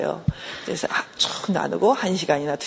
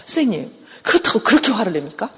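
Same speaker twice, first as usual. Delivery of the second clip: husband's protest, rising higher on the repeat; imitating an aggrieved husband, insistent; indignant protest; 4 semitones higher than usual. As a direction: protest to the counsellor with a sharply rising question. Acted husband protesting to the counsellor.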